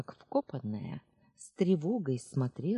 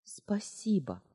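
choked with gratitude; 6 semitones higher, slower than usual. Acted. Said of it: "задохнулась от переполнявшей меня благодарности".

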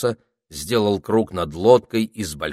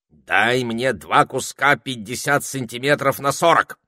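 raised, bossy parrot voice; commanding parrot; 5 semitones higher, 4 dB louder than usual. A narrator's reading. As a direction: give the order like a proud bird. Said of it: "приказал он".

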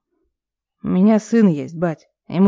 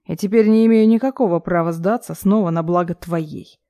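usual speaking voice

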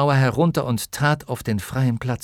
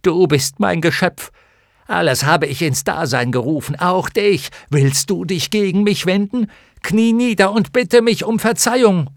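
dark lord; 7 semitones higher, 6 dB louder than usual. Acted. Bastian's megalomaniac speech.

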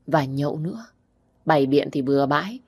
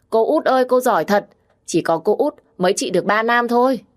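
put-on higher and louder, a child's delighted praise; excited little girl; 5 semitones higher, 4 dB louder than usual. Little Na praising her aunt after her father falls asleep, bright child cheer. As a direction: cheer like a small kid clapping.

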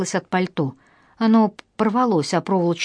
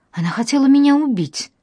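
high frightened cry; a scared plea, pitched up; 7 semitones higher, 4 dB louder than usual. A narrator's reading. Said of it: "испугалась я". (испуганно, высоко)

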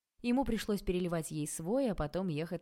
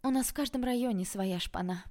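mildly plaintive, pitched up; sad sigh; 5 semitones higher than usual. A narrator's reading. Tanya commiserates with the car owner, higher plaintive tone. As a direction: lament it lightly in a higher voice. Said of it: "печально вздохнула Таня".

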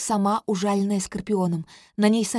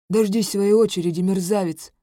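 hissing guard; 5 dB louder than usual. Acted. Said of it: "шикает на него охранник".

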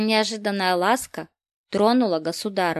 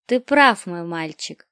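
gentle tender voice; 6 dB louder than usual. Acted. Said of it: "произнесла та ласковым, кротким голосом".

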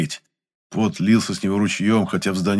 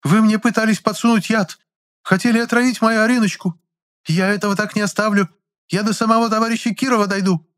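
shrill threats; 4 dB louder than usual. Acted. Angry customer threatening chemist.

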